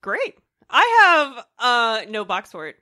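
hoarse from a cold; rough, congested cold voice; froggy voice. Real, not acted. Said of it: "I just have a cold, so I sound a little bananas".

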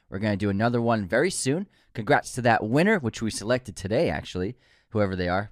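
smooth, upbeat sponsor read; steady promotional patter; podcast ad read. Acted. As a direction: sell it like a friendly podcast host. Reads the sponsor spot.

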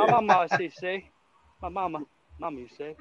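lightly hammed Cajun Waterboy voice; Waterboy Cajun accent. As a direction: imitate the Waterboy's Cajun mama line. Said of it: "Cajun talk".

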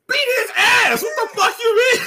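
high, loud, laughing outrage; real laughing outburst; indignant shout. Real, not acted. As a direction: blurt out in disbelief.

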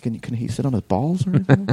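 laughing through a put-on old man; half-laughing fussy father; joking old dad plea; laughing mock dad. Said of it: "he's like".

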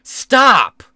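imitating a frantic yell, rising to a shout; mock panicked yell ending in a shouted stop; mock shouting RFK. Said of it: "he was on T V going".

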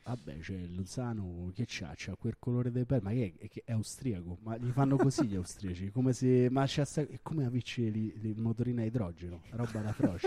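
put-on Roman mechanic with Roman accent; a Roman accent as a grumbling mechanic. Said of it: "grande imitazione dei meccanici romani".

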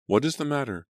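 high, worried cry; alarmed. A narrator's reading. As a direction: call out in alarm. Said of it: "alarmed voices".

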